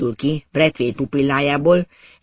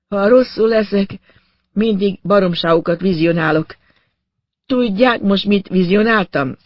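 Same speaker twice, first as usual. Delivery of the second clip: higher-pitched, light character voice; revived patient; 6 semitones higher than usual. Acted. Revived patient tells his rescuers of visions, higher-pitched. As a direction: lift the voice like a patient just come round.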